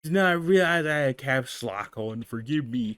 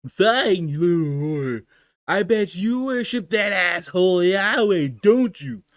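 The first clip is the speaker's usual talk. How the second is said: put-on spiteful, louder drunken god; angry drunk god; 5 dB louder than usual. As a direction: spit the insult, drunk. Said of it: "doing the drunken god voice".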